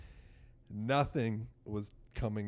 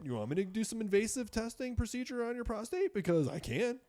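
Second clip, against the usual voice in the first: high put-on voice mocking a smug doctor; imitating a doctor daring him to try a prostate procedure; 12 semitones higher than usual. Retelling the doctor's offer of invasive testing, a high mocking impression. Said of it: "He's like".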